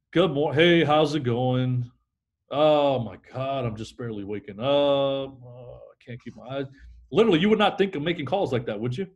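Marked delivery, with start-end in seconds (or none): 0.1-6.7 lightly played sleepy hourly worker; going negative. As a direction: act like you just rolled out of bed. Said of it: "I call and I go negative".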